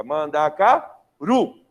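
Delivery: "Mandacaru" very slow and loud, in syllables; man-da-ca-RU, drawn out for a class; finding the stressed syllable. Shown as a demonstration. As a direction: stretch "Mandacaru" out to its final stressed RU. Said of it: "Qual que é a sílaba tônica?".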